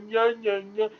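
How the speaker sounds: mocking nya. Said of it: "that's what she was saying".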